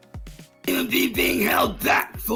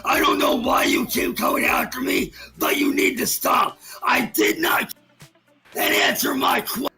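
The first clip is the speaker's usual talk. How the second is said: berserk rage. Real, not acted. Ranting shout at harasser.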